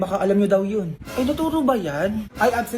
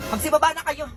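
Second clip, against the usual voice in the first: higher-pitched, irritated command; threatening order; 4 semitones higher than usual. Acted. Newly rich driver losing patience with passengers, threatening order. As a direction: order them out, temper rising. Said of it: "Pag yan ang initin yung ulo ko".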